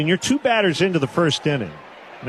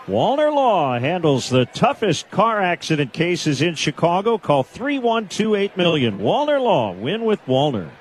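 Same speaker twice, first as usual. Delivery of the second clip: punchy sponsor slogan read; announcer's scripted plug with emphatic name; 2 semitones higher than usual. Real, not acted. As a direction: sell it like a radio spot, hitting the name. Sponsor read during play.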